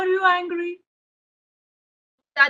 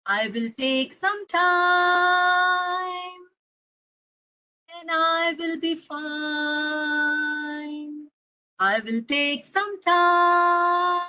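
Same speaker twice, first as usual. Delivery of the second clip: slow soothing chant, drawn out; slow calming mantra; 2 semitones higher, much slower than usual. Acted. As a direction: repeat it gently like a mantra. Child repeats calming mantra slowly.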